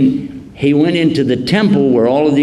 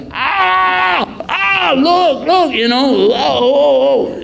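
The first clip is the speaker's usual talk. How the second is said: much higher, shocked crying out; shocked townspeople; much slower than usual. Retold or imitated. Townspeople find the broken statues, shocked high cries. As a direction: gasp at the smashed idols. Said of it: "they're like".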